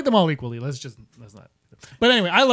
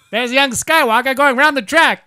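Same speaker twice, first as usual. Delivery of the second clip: podrace commentator; 5 semitones higher, 10 dB louder than usual. Retold or imitated. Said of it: "the commentator for the pod racing".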